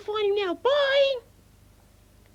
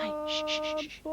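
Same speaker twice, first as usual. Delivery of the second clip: hushing; 5 semitones lower, 9 dB quieter, faster than usual. Acted. Hushing his dad during the scene.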